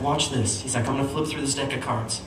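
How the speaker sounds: soft, understated magician patter; magician's hush. Retold or imitated. Magician to a viewer before a card trick, hushed. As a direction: play the magician quietly drawing someone in.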